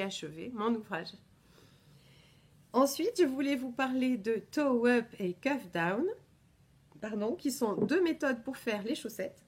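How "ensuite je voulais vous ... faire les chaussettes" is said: hiccups. Real, not acted. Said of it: "Pardon, j'ai le hoquet".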